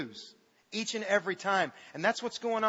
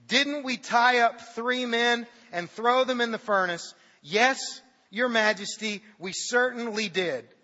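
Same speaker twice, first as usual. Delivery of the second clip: amazed king; 5 semitones higher, 5 dB louder than usual. Acted. King and advisors voiced.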